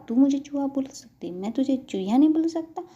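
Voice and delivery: put-on high, loud childish arguing; indignant squabbling. Ansh quarrels with the little girl, indignant squabbling. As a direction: argue back like a miffed boy.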